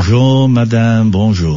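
playful schoolboy French; mock French greeting. Shown as a demonstration. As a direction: bonjour in a mock French accent. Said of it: "You're nearly fluent there".

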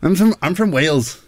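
hesitant try at Welsh; attempted Welsh accent. Shown as a demonstration. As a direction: have an amateur go at a Welsh accent. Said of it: "so I'll try my best".

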